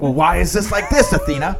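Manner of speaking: playfully put-on demanding question; mock-accusing question; movie-quote tone. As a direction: mimic the movie wife's questioning tone. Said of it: "say it in that, in that tone".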